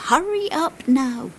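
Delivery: high impatient character voice; acted impatience. A narrator's reading. Impatient passengers hurry the coach.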